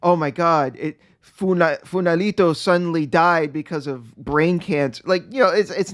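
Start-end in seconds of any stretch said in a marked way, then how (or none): none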